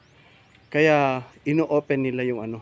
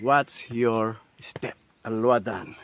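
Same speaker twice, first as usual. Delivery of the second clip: slow warning; much slower than usual. Retold or imitated. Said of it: "sabi niya".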